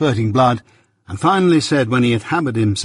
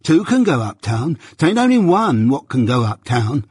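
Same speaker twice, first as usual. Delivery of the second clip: raised-pitch, argumentative comeback; stubborn retort; 3 semitones higher than usual. Acted. Journeyman arguing with his master, stubborn retort. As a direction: argue back stubbornly.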